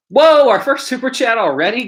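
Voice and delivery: high, loud, drawn-up whoa of real surprise; surprised delight. Real, not acted. Streamer reacting to the first super chat, surprised.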